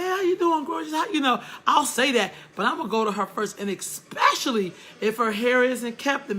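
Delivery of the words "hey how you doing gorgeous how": friendly greeting. Retold or imitated. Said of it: "I do say that, but I say".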